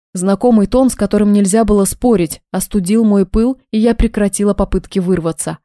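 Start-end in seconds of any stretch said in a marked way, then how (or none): none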